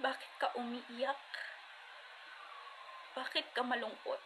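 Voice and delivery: soft, tender question easing into reassurance; gentle divine comfort. Retold or imitated. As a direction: imitate God softly consoling someone in tears. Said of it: "he told me". (malumanay na pag-aliw)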